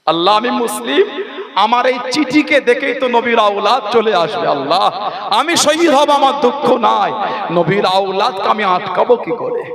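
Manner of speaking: retold tearful plea. Envoy fears his letter will bring Husain, acted tearful plea. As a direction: cry out helplessly to God, half-acted. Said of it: "হুজুর দাঁড়িয়ে দাঁড়িয়ে কাঁদছে".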